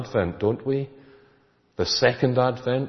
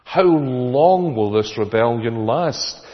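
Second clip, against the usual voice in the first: louder, lifted plea to heaven; a raised, drawn-out lament; crying out to God; 2 semitones higher, 5 dB louder, slower than usual. Retold or imitated. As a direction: cry out how long, slow and pleading. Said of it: "and you cry".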